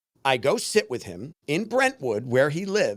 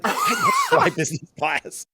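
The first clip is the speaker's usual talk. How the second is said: mock snob. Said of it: "It's like".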